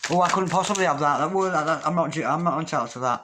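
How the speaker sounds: acted self-doubting protest; mock scared protest. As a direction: voice someone too scared to accept it. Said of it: "It's like you're scared of your future".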